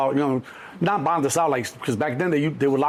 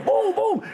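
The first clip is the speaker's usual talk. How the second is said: shouted gunshot noises. Retold or imitated. Imitating gunshots.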